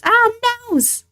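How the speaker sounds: high, loud cartoonish wail; mock panic. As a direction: wail in pretend dismay. Mock dismay at creature crashing in.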